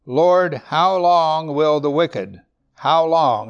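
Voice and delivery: loud, slow lament; pleading lament voice; lamenting plea. Acted. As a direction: plead with God, drawn out. Psalmist's lament read.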